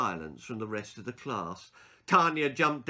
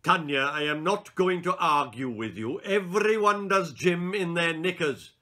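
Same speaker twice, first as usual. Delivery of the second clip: loud, higher firm scolding; exasperated teacher; 5 semitones higher, 6 dB louder than usual. Acted. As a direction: lay down the rule. Teacher argues with girl.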